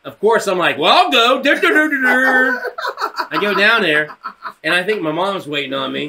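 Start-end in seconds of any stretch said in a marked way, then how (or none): 0.8-2.6 loud, high dopey sing-out; mock oblivious. Kid called to the office, mock oblivious. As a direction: play the clueless kid bumbling along.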